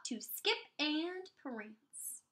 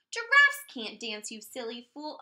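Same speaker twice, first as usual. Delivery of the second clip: mocking animals; 8 dB louder than usual. Animals mock Gerald.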